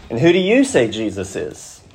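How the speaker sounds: "you" lifted well above the other words; stress on YOU. Shown as a demonstration. Preacher putting the same question to the congregation, stress on "you". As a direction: aim the question by leaning on "you". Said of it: "which means it's emphatic".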